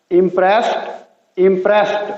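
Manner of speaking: इम्प्रेस्ड ending in a t, impresst. Shown as a demonstration. Teacher contrasting इम्प्रेस्ड with the base verb for learners. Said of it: "टी sound".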